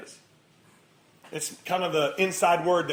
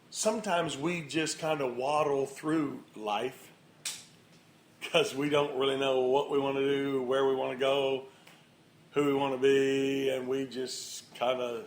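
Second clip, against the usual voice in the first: aimless waddle; 2 semitones lower than usual. Acted. Drags words, miming aimless waddling.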